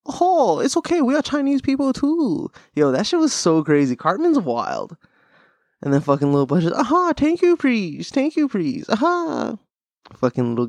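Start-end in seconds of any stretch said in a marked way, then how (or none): 0.0-2.5 very high caricature Asian voice; high, cartoonish Asian accent; mock Asian accent. Cartoon character reassuring someone, mock Asian accent. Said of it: "speaking of the Asian accent". 6.7-9.6 put-on high, squeaky caricature Asian accent; mock Asian accent. Imitating a little cartoon guy saying thanks, mock Asian accent. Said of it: "speaking of the Asian accent".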